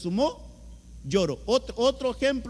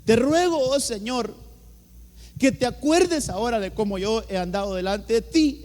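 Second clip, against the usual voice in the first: raised, louder plea to God; pleading prayer; 3 semitones higher, 4 dB louder than usual. Retold or imitated. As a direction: read out the prayer as an emphatic appeal. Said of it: "Oró al Señor diciendo".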